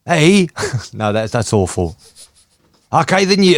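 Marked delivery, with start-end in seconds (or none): 0.1-0.5 failed stab at a Scottish accent; tentative put-on Scottish accent. Shown as a demonstration. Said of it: "Scottish accent, let's see". 2.9-3.6 abandoned attempt at Scottish accent, pitched up; badly faked Scottish accent. Shown as a demonstration. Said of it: "Scottish accent, let's see".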